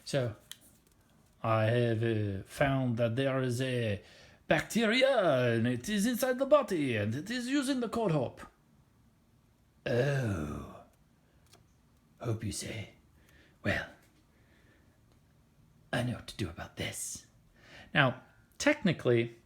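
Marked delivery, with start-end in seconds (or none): 1.4-8.4 bad French accent. French helper T cell reports bacteria. 9.9-17.3 low, softer tough-guy reply; killer T cell. Acted. Killer T cell answers the report.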